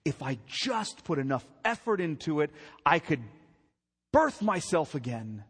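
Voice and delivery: mock self-reliance. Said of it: "He thinks".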